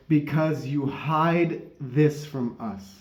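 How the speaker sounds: slow, lightly put-on Scottish accent; failed Scottish accent. Scotsman answering the rabbi, mild mock Scottish accent. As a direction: draw it out in a rough Scottish accent. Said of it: "a failed Scottish accent".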